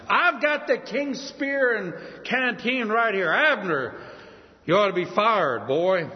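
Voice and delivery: David teasing Abner, lightly mocking. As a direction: rub it in that the guard slept. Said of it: "He's kinda making fun of Abner".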